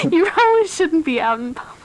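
flight attendant. Pretend. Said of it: "stewardess voice".

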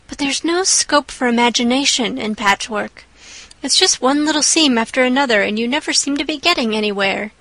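put-on lively girl, rushing at times; chatty young girl. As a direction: chatter on dreamily. Anne chatters while sewing.

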